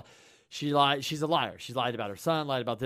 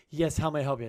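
mock polite greeting; faster than usual. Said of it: "Isn't that better?".

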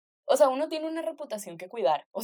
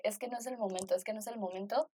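quiet inner voice; 9 dB quieter than usual. Retold or imitated. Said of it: "uno dice".

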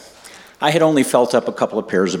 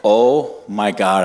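awed; much slower than usual. Retold or imitated. Acted thought during retold first time.

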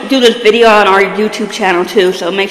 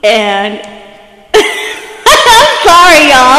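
trying not to laugh; 2 semitones higher, much slower than usual. Real, not acted. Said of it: "I'm trying not to laugh".

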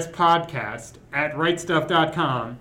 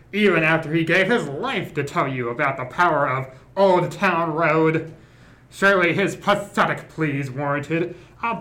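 Hannibal Lecter voice. Acted. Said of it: "do a transatlantic accent slash Hannibal Lecter voice".

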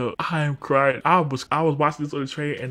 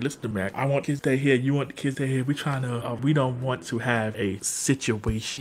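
social worker quote; 7 dB quieter than usual. Retold or imitated. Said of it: "He's like".

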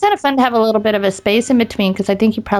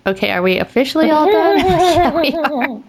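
put-on high, slow child question; 7 semitones higher than usual. Kid's question quoted.

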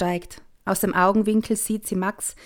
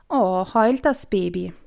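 mocking; 3 dB louder than usual. Brother mocking crying sister.

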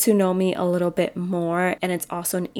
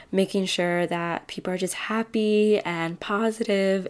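voice cracking. Real, not acted. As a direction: voice breaks mid-phrase. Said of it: "I don't know why my voice just cracked".

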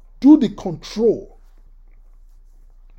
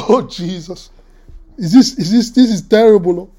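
dismayed exclaim; 6 dB louder than usual. Retold or imitated. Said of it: "I said".

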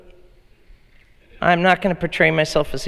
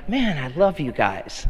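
laughing affection. Retold or imitated. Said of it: "I go up to Sarah and I say".

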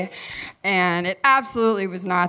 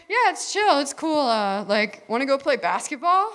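put-on easygoing boy; 5 semitones higher than usual. Acts Lee's casual invitation.

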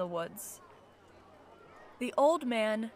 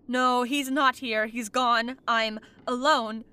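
firm, louder no, he's not here, settling on alone; louder realization; 7 dB louder than usual. Acted. Ghost realizing he is alone, louder and firm. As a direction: state it louder, facing being left alone.

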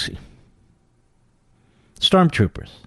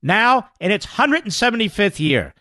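polished sponsor read, pitched up; 5 semitones higher than usual. Acted. Host thanking the college for sponsoring the podcast, sponsor read.

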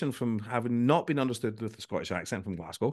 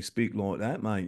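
slow, careful imitated English accent; exaggerated English accent on "mate"; put-on English accent; slower than usual. Scot recalling the Marines' accent rule, put-on English accent. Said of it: "If you don't sort your accent out".

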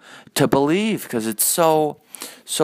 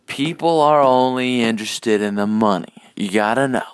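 tag; 5 dB louder than usual. Retold or imitated. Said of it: "that quote by that guy".

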